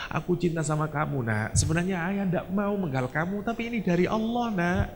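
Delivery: soft, choked loving words; hushed, grieving father; tearful father. Acted. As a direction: tell your son through tears. Weeping father to son.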